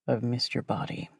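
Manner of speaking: low husky whisper. Acted. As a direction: whisper it low against her skin. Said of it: "he whispers".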